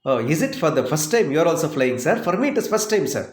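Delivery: lightly acted eager first-time flyer; excited. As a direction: play the chatty passenger, mildly excited. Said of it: "So he got excited".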